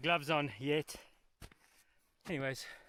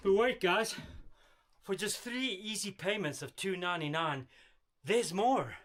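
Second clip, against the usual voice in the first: hard sell ad; 3 semitones higher than usual. Pretend. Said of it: "And you guys thought I was done".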